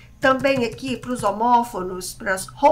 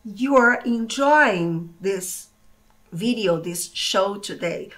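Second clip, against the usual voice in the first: slow demo; 2 semitones lower, much slower than usual. Shown as a demonstration. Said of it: "eu já digo".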